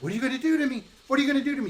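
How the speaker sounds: terrified little voice begging the witch; scared Hansel. Acted. Hansel begs the witch in a high, frightened voice. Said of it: "He's going".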